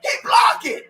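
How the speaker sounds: real anguished shouting; anguished yelling. Real, not acted. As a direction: cry out in protest at the call. Ranting at the referees.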